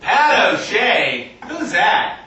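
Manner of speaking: lightly voiced baffled stranger; curious passer-by. Stranger reading the comedian's shirt, puzzled. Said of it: "Have people come up and go".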